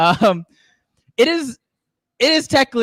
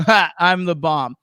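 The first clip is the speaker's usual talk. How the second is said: proud terrorist; 3 semitones lower, slower than usual. Acted. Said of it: "a terrorist who's really proud of himself".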